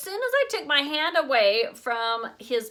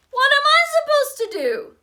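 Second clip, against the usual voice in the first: much higher, loud frantic protest; a boy told to fix the stinking dog; exasperated shout; 10 dB louder than usual. A narrator's reading. Panicked kid yelled at.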